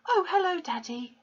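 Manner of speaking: put-on high, bright greeting from a young girl; sweet girlish hello to her father; pleasant girl. A narrator's reading. Girl greeting her father pleasantly, high and sweet. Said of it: "she said pleasantly".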